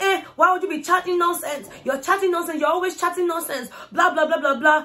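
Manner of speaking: high-pitched imitation of a nagging quarrel; mock argumentative rant. Housemate telling off another for talking nonsense, mock argumentative.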